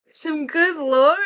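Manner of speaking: high, loud, slow gush then a laugh; delighted squeal. Real, not acted. After reciting the rhyme, squealing happily over the lore.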